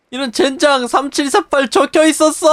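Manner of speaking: high, loud cry of disbelief; high exasperated shout; frustrated outcry. Real, not acted. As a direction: rage at the missed clue. Code was there all along.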